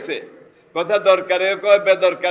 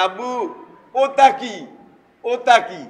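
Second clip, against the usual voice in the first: put-on small child asking; 4 semitones higher, slower than usual. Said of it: "এখন আপনাকে জিজ্ঞেস করে".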